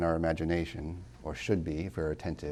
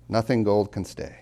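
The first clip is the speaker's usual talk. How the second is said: announcing the title; 3 semitones higher, 6 dB louder than usual. Shown as a demonstration.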